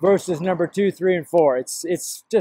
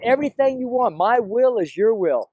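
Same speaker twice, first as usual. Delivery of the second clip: earnest, pitched-up words of surrender; earnest retold prayer; 3 semitones higher than usual. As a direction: offer yourself to God in an insistent prayer. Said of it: "I said".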